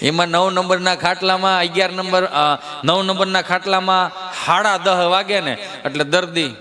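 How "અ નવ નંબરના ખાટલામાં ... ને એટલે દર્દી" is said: usual speaking voice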